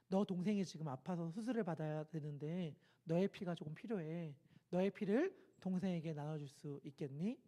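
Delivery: soft low kindly question; warm voice. A narrator's reading. A hint of a doctor gently asking the boy. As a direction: ask gently like a kind doctor. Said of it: "따뜻한 목소리로".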